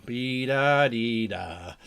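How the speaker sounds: drawn-out sing-song "be-da-dee-da"; idle, slow vocal filler; nonsense filler. Real, not acted. Podcaster filling a gap between thoughts, idle sing-song filler.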